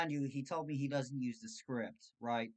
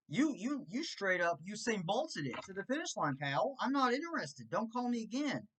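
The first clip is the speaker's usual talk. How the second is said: higher, louder, a bit hammed-up rant; heated telling-off; 4 semitones higher, 4 dB louder than usual. Telling the scam caller off before hanging up, heated. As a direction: let the scammer have it, fired up.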